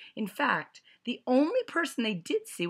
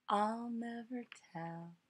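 with a smile; 5 semitones higher, 8 dB quieter than usual. A narrator's reading. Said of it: "with a smile".

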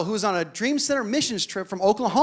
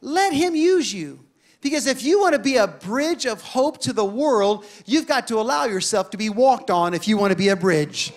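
gentle divine voice. Retold or imitated. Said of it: "the Holy Spirit spoke to me".

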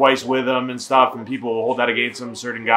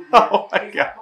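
stunned whisper; 7 semitones higher, slower than usual. Real, not acted.

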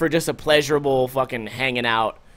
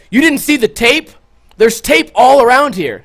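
higher, louder mock cop yell; imitating angry cop; 8 semitones higher, 7 dB louder than usual. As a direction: scold like an outraged cop. Cop yelling at narrator.

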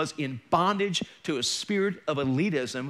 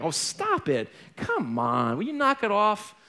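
retold fed-up brush-off, swinging up at the end; exasperated protest; 3 semitones higher, slower than usual. Preacher brushing off the woman's rebuke, exasperated. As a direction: protest like you're being nagged, mildly acted.

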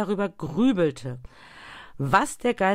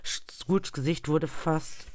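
ordinary delivery

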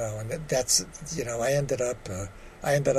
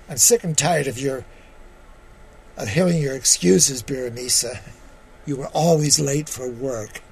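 boss scolding. Retold or imitated. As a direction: dress him down for lateness. Chief bellhop scolding George.

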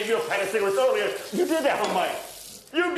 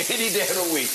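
taunting laugh. Real, not acted. Taunting Mike mid argument.

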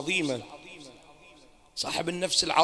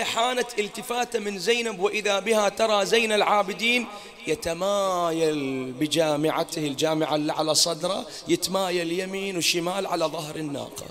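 impassioned narration; 3 dB louder than usual. Acted. Preacher recounting Zaynab's sight of Zayn al-Abidin, loud declaiming. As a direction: declaim the narration to stir grief.

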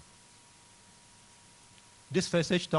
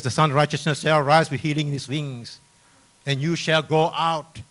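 raised preaching voice, louder; firm, loud pulpit delivery; emphatic scripture reading; 2 semitones higher, 9 dB louder than usual. Acted. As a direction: declaim the promise to the congregation. Declaims the verse.

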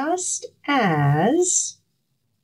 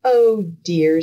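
sighing Missus Baker; 5 dB louder than usual. Acted. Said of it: "sighed Missus Baker".

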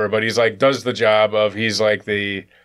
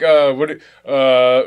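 panicking bad comedian; 4 dB louder, much slower than usual. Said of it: "like a really bad comedian trying to do crowd work".

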